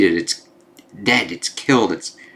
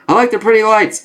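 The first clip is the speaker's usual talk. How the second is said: much higher, louder loopy voice; dazed drugged voice; 12 semitones higher, 5 dB louder than usual. Acted. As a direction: play her high on Kraven's darts. Drugged Kamala's line.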